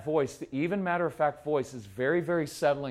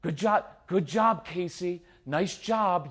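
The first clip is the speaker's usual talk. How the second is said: sarcastic yelling; 5 semitones higher than usual. Retold or imitated.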